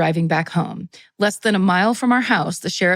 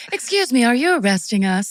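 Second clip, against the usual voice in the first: mom voice; 4 semitones higher than usual. Retold or imitated. Voicing mom to cop.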